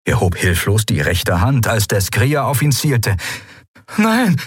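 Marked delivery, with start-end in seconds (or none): 4.0-4.3 gasped. A narrator's reading. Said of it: "keuchte er".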